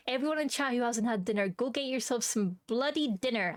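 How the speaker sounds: a mild mock scolding mum, a touch quick; half-hearted mum telling chat off; angry mum voice. Streamer scolding chat to go eat, as an angry mum. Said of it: "I'm using my angry mum voice".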